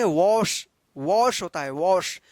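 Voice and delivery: वॉश said "wawsh", rounded vowel; correct "aw" vowel. Shown as a demonstration. Teacher modelling the right reading for learners, with aw. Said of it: "वॉश पढ़ते आ रहे हैं ना".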